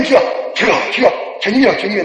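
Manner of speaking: lightly voiced desperate plea; a hint of panicked calling; calling on the Lord. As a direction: cry out to the Lord, mildly. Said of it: "너희가 나를 부르리라".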